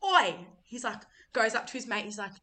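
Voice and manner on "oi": higher, louder mock call; bloke calling out. Suspicious guy calling to his mate, mock shout. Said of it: "this guy's like".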